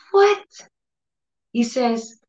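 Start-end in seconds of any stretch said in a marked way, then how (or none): 0.1-0.4 shocked what. Retold or imitated. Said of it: "And I was like".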